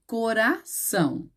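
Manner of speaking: "coração" said slowly, split as cora-ção; slow, segmented "coração"; syllables set apart. Shown as a demonstration. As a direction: break "coração" before a lengthened "ção". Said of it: "A palavra coração aqui".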